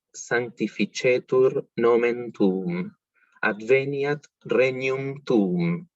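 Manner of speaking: slow, clear Latin read aloud for learners; slow ecclesiastical Latin recitation; slow careful reading. Shown as a demonstration. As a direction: read the Latin slowly, word by word. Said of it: "lo voy a leer una vez sin cantar".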